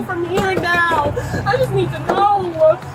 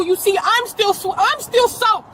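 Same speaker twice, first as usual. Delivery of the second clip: raised voice, defending herself; frustrated outburst; 3 semitones higher than usual. Real, not acted. Mother to the officers, defending herself with a frustrated shout.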